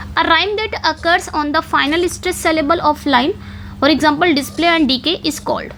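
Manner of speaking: reading the question out very slowly; slow, careful question read; slow dictation. Shown as a demonstration. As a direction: spell out every word for students to note down. Reads the exam question aloud.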